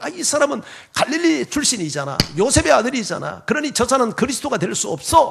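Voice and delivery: scoffing, high voice.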